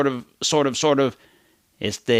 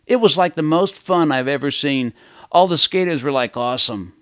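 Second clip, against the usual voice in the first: put-on gushing teen; 3 semitones higher than usual. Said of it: "imagine a journalist interviewing a teenager".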